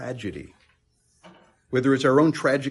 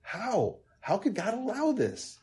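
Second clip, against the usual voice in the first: higher, soft, breaking questions; anguished whisper; 6 semitones higher, 5 dB quieter than usual. Retold or imitated. A doubter asks God why, in a pained whisper. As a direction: ask God in quiet despair. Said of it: "cause us to think things like".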